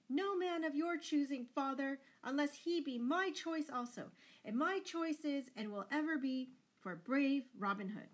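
high, loud defiant outburst; breaking out. A narrator's reading. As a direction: burst in and defy father. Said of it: "But Marian broke out".

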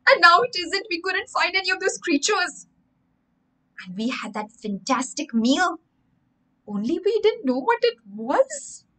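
a lightly voiced excited boy piecing it together. Sammy's excited suspicion.

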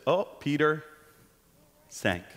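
low, mock-solemn preacher; imitated preacher. Imitating preachers on Peter sinking, mock solemn. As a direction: lightly parody a grave preacher. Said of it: "Everybody preaches this".

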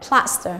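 "plaster" with the weight on PLAS; teacher's "plaster", PLAS-ter; first-syllable stress. Shown as a demonstration. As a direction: lean on the start of "plaster". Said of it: "là trọng âm thứ nhất".

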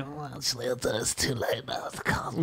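drops to a soft, slow near-whisper for the awkward excuse; sheepish hush, trailing into a whisper. Retold or imitated. Podcaster imagines telling Dick and Dom no, in a hushed whisper. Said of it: "get back to Dick and Dom and say".

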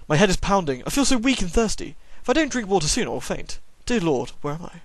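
faint, pained and pleading; a lost boy near fainting; lightly voiced weak boy; weak thirsty boy.

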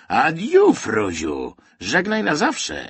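high, loud, theatrical farewell; gloating cry. A narrator's reading. Man bids the hated shore farewell, gloating cry. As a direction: cry out a scornful goodbye with open satisfaction. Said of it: "zakrzyknął z nienawiścią".

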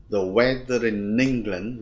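"weather in England" run together slowly; slow demo joining "in" to "England"; linked sounds. Shown as a demonstration. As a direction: link "in" onto "England". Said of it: "luyến chữ in sang in".

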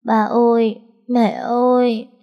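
put-on high, whimpering child calling out for grandma and mom; a small girl on the edge of tears, calling; whimpering little girl. A narrator's reading. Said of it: "Nó mếu máo gọi". (bé gái mếu máo gọi, giọng cao)

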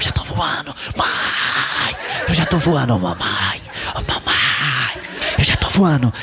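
put-on whiny kid drawling out mamãe; mock child's whine. Hyper kid calling her mother on a plane, drawn-out whine. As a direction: stretch it like a bored child calling. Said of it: "Aí a criança ficava".

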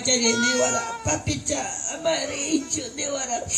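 lloriqueo fingido, muy bajito; llorón. Acted. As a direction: queja llorosa que se va apagando. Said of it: "Serrano, llorón". (serrano llorón, en voz baja)

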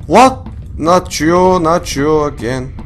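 high, loud startled disbelief; shocked dismay. Real, not acted. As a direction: recoil in dismay. Monster reappears.

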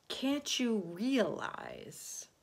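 measured, stretched-out question; patient. Acted. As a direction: spell it out slowly and patiently. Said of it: "he said patiently".

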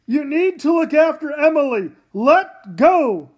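loud desperate orders; urgent shout. Acted. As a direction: command her to let go. Father sacrifices himself.

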